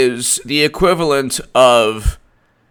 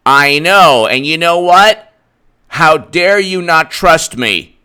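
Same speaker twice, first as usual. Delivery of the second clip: shouting wife; 3 semitones higher, 6 dB louder, slower than usual. Retold or imitated. Wife turns the blame back on husband, hammed-up shout. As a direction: yell it back at him in disbelief.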